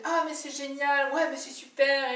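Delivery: mock excited gushing; imitating gushing enthusiasm. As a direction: ham up an over-eager fan. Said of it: "la personne qui est toujours après".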